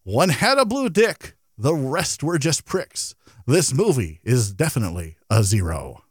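slow sing-song limerick recital; bouncy limerick lilt. Pretend. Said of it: "do you have a limerick for us today?".

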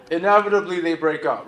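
inevitably they break up said through a laugh; amused retelling with a laugh. Shown as a demonstration. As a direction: chuckle through the repeat. Repeats the line for the laugh.

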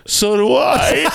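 very high, drawn-out gushing; hammed-up starstruck squeak, stretched out; over-eager fan squeal. Fan trying to be Eddie's friend, squealing in eager agreement.

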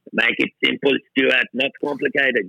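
put-on light German accent, quoting a mentor. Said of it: "was that your German accent then".

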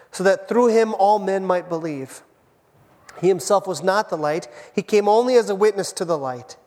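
measured, solemn reading of the passage; scripture reading. Acted. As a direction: read the Bible text aloud to the congregation. Reads scripture passage aloud.

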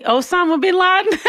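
high, laughing imitation of mom; laughing mom quote. Mom answering the nurse, high and laughing. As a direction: giggle through mom's mix-up. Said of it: "and she'll say".

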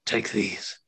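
slow, sorrowful ancient dragon; dragon creature voice. Acted. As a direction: speak as a dying, grateful dragon. Dragon offers gemstones.

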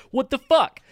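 a sudden high yelled what the fuck; imitating a baffled rebel yelling in shock; mock outraged shout. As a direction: blurt it out high and loud in disbelief.

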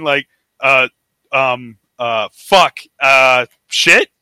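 halting, imitated search for an answer; mock floundering. Podcaster mimicking someone stumped by a question, mock floundering. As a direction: stall on fillers, then curse questioningly. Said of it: "trying to come up with the answer".

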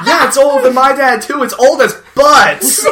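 high, fast, laughing exclaim. Real, not acted. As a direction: blurt it out mid-laugh. Laughing agreement.

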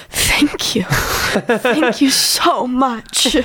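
very slow, breath-only thank-you; grateful whisper. Acted. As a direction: whisper it like a body finally relieved. Body thanking her for coffee.

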